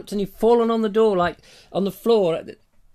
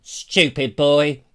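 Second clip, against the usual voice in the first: mock Juliet scolding; 3 semitones lower, 5 dB louder, much slower than usual. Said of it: "Juliet wakes up and goes".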